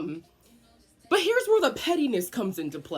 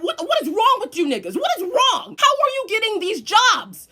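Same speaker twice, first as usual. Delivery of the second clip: higher, loud, laughing disbelief; laughing outrage; 12 semitones higher, 7 dB louder than usual. Real, not acted. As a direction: yell it half laughing. Incredulous laughing rant.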